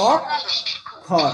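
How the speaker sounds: অক্ষর in two slow, separate beats, "ok ... khor"; syllable split. Shown as a demonstration. Teacher showing class two syllables, each apart. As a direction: break অক্ষর after "ok", pause, then "khor". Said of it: "দুটা দেখ, একটা আসছে".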